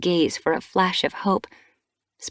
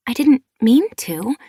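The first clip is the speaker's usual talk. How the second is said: defensive; 6 semitones higher, 7 dB louder than usual. A narrator's reading. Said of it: "Squirrelflight mewed defensively".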